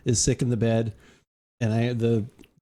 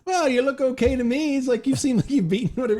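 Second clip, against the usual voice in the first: put-on old farmer doctor; 10 semitones higher than usual.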